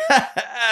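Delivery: high imitated cackle; mock laugh. Retelling Santa's moment in the film, mock cackle. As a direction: cackle like the character in the movie.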